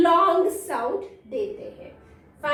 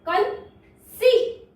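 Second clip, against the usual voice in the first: drawn-out word; 5 semitones higher, much slower than usual. Shown as a demonstration. Teacher presents the next word, stretching कंसीट slowly. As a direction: break कंसीट open with a long, held सीट. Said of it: "देखिए next word".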